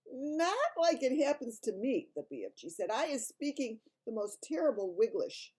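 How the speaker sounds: a big kindly giant trying his best; friendly giant voice. Acted.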